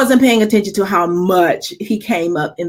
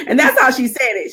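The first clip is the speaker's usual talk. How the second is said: ordinary delivery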